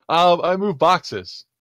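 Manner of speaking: humble high-pitched creature; simple bug alien. Acted.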